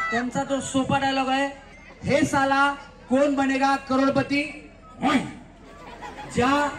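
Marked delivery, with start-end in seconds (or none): 2.0-4.7 Amitabh Bachchan dialogue. Shown as a demonstration. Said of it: "dialogue आहे अमिताभ बच्चन साहेबांचा".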